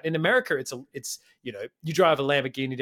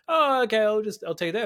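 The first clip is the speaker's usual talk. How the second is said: mock relief; 7 semitones higher, 4 dB louder than usual. Mocking lazy acceptance.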